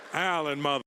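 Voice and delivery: loud, punchy mock swagger; mock brash introduction. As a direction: throw the name out hard and loud. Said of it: "You could have just been like".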